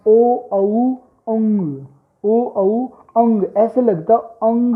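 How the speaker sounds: ओ, औ, अंग with the sound lifting upward; rising nasal. Shown as a demonstration. Teacher contrasts two sounds for students: rising अंग. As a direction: let अंग climb up as you say it. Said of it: "ध्वनि ऊपर जा रही".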